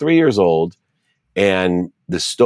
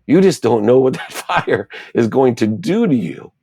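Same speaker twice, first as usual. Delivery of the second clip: soothing mother; 7 semitones higher than usual. Retold or imitated. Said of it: "And she said".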